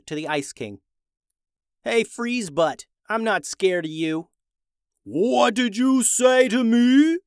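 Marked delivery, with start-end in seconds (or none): 1.8-4.3 cheeky taunt. Acted. Ben taunting the Ice King. 5.0-7.2 high, loud, slow outraged roar. Acted. Ice King insulted by a boy, loud slow outraged roar. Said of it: "the king roared".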